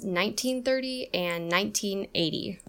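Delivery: NINEteen THIRty, NINEteen EIGHty; first and third stressed. Shown as a demonstration. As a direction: stress NINE and THIR, NINE and EIGH. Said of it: "stress is on the first and third syllable".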